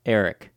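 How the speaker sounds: "Eric" with a plain short "eh" first vowel; own Eric. Shown as a demonstration. Host showing the guest how he himself says "Eric", plain short vowel. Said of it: "That's how I would say it".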